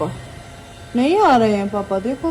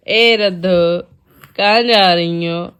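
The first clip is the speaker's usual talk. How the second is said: calling out; 3 semitones lower, 3 dB louder, slower than usual. Real, not acted. Mother calls toddler wandering away, drawn-out call. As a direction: call her back, stretching the name.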